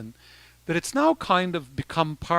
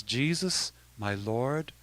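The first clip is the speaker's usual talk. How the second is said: prayerful translation; 5 semitones lower, 7 dB quieter, slower than usual. Shown as a demonstration. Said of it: "what it means in English is".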